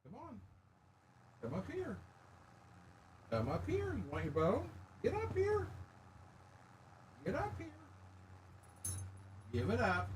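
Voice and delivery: high, sing-song calls from across the room; high, distant pet-talk coaxing; coaxing the dog. Real, not acted. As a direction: sweet-talk a dog up onto the bed. Coaxing dog onto the bed.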